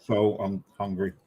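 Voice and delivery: slow, chewing while talking; mouth full. Real, not acted. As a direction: talk through a mouthful.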